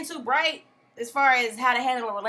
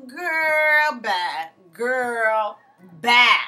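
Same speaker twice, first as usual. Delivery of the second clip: dismissive; 7 dB louder, much slower than usual. Real, not acted. Dismissive catchphrase.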